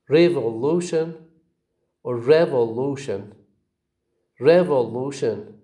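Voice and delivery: "Revolution" stressed on REV and LU; two stresses. Shown as a demonstration. Teacher shows example words, "revolution" with two stresses, REV and LU. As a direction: model "revolution" with beats on REV and LU. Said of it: "You see two stresses".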